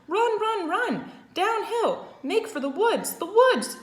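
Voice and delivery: high, loud frantic shouting; goose hollering. A narrator's reading. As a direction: scream at the pig to run. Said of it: "she shouted to Wilbur".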